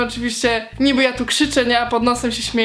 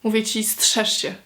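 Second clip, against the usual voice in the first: mock threat; 4 dB quieter than usual. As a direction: warn him softly, pretending menace. Playful warning to her brother. (żartobliwa, przyciszona groźba)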